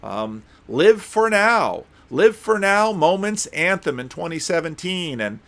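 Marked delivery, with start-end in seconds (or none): 0.7-4.0 higher, slow, announcing; mock announcer slogan. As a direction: sell it like the ad. Quoting the ad's slogan brightly.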